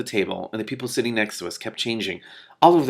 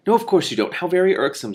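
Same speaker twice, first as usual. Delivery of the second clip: a lightly higher squeaky little voice; a hint of a fussy little lizard; 8 semitones higher, 4 dB louder than usual. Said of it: "said a squeaky voice".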